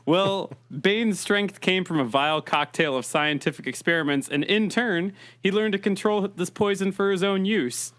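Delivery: muffled Bane voice through cupped hands; hands cupped over mic. Acted. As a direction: talk into your hands, lightly as Bane. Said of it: "is me talking into my hands".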